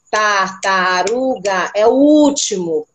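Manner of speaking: tartaruga stretched slowly, landing on último; slow emphatic answer. Shown as a demonstration. Teacher showing where the G sound falls, slowly. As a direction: lay out the answer slowly for a pupil. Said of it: "Onde tá o som do G?".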